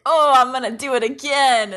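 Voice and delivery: Naruto. Retold or imitated. Retelling an anime scene, a lightly mocked determined hero. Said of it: "and Naruto's like".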